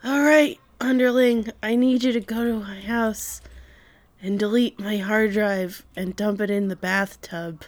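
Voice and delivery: hammed-up dying orders; dying boss voice. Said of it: "and he's like".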